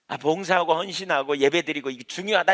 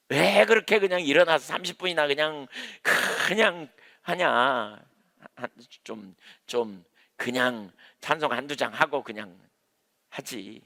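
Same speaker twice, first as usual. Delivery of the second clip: dismissive complaint; slower than usual. Retold or imitated. Preacher imitating a formal believer complaining about long worship, slow grumble. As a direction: drag it out like an impatient churchgoer. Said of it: "그렇게 얼마든지 말할 수도 있어요".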